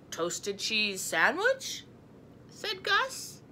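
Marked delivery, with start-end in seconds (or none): 0.1-1.9 slow ghost voice. A narrator's reading. Gus character voice.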